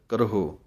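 ਕਰਹੋ with sihari on rara; ਕਰਹੋ pronounced carefully, kar-ho; Gurbani pronunciation. Shown as a demonstration. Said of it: "ਹਾਹੇ ਔਂਕੜ ਹੈ".

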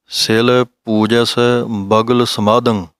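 ਸਿਲ and ਪੂਜਸ said softly and lightly, slow; soft pronunciation. Shown as a demonstration. Teacher demonstrating soft pronunciation to students, slow and light. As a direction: ease gently into ਸਿਲ ਪੂਜਸ. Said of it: "ਪੋਲਾ ਉਚਾਰਨ ਕਰਨਾ ਹੈ".

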